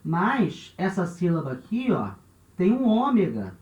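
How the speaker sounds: a hint of a student's protest; objecting student. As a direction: query it like a pupil spotting a contradiction. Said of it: "você vai falar pra mim".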